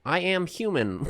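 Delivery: slow deliberate robot monotone; robot insisting slowly. Pretend. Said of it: "do the fake robot".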